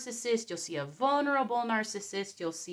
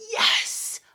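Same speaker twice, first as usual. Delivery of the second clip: gleeful triumph; 3 semitones higher, 5 dB louder than usual. Retold or imitated. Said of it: "everybody is thinking".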